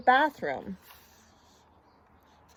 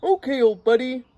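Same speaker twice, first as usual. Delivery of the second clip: breezy, louder reply; Ernie; 2 semitones higher, 5 dB louder than usual. A narrator's reading. Ernie gives in to Bert, lightly voiced and breezy. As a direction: agree lightly, with some volume. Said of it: "said Ernie".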